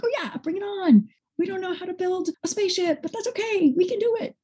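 put-on high, eager kid voice; bright little voice, bring it on; excited child voice. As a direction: play an eager child taking on a challenge. Excited kids voiced as quote.

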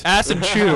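"Ass and chew" said slowly as separate words; broken-up pun. Shown as a demonstration. Joking about Massachusetts, "Ass and chew" sounded out slowly. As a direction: stretch out "Ass and chew" word by word. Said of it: "it's got ass in it".

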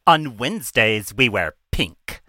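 slow mock mean girl voice; Mean Girls quote. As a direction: deliver it like a snooty teen queen. Quoting Mean Girls line.

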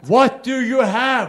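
curious woman asking. Retold or imitated. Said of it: "she was wondering".

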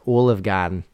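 put-on New Zealand accent; Kiwi accent. Shown as a demonstration. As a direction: show off a practised Kiwi accent. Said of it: "can say in a Kiwi accent".

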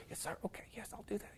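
imitating a timid, tiny whisper; mock-meek, submissive, barely audible reply; quiet, meek talk. Timid recruit answering the yelling instructors, quiet and meek. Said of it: "that's how she's talking the whole thing".

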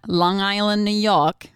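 a light, playful New York accent on "Long Island". Shown as a demonstration. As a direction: drawl "Long Island, New York" like a born New Yorker, half joking. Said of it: "That's my N-, New York accent".

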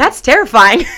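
high, loud, hammed-up horrified cry; mock alarm. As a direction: throw it out as a half-joking shriek of dread. Alarmed realisation in retold thought.

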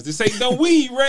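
high, loud movie quote to a friend; quoting a movie line. Retold or imitated. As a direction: ham up the famous line. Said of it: "a singer".

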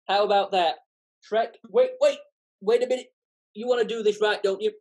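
brisk, pushy sidekick voice; lively Donkey. Acted. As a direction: nag him like an eager donkey. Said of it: "I'll have a bash at donkey".

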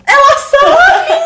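high, slow laughing cry; delighted laughing shriek; laughing squeal. Real, not acted. Friends joking, laughing squeal.

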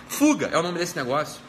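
usual speaking voice

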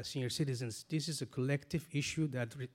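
ordinary delivery

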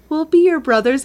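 high, sweet imitation of kids; a hint of little-kid voice; lightly voiced children. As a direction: offer comfort in a lightly childlike voice. Voicing the children comforting dad.

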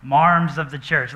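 slow "Marms" with an open R; New England accent. Shown as a demonstration. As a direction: drawl "Marms of the church" New England style. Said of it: "That's a New England accent".

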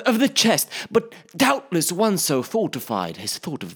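nervous hobbit stammer. Acted. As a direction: stall nervously for the word. Bilbo hesitant flattery.

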